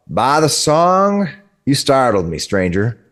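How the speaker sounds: a lightly voiced startled traveller, slow on the first words; a hint of a jumpy wagon driver; startled man. Wagon man greeting the stranger, lightly startled.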